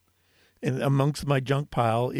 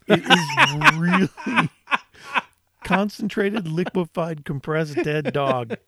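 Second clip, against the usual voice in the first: exaggerated disgust; 4 semitones higher, 3 dB louder than usual. Real, not acted. Disgusted emphatic build.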